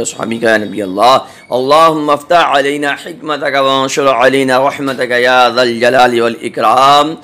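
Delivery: devotional recitation. Real, not acted. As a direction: recite the blessing devoutly. Recites durood and dua. (दुआ पढ़ने का अंदाज़)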